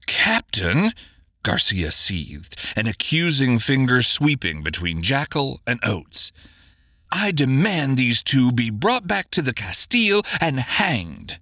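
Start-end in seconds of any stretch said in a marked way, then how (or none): 0.1-0.9 angry shout. Acted. Garcia angrily shouts at Bermudo. 7.1-11.4 angry demand. Acted. Garcia demands hanging, enraged.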